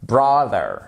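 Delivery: brother with the first syllable stressed. Shown as a demonstration. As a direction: put the weight on BRO in brother. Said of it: "sur la première syllabe". (brother accentué sur la première syllabe)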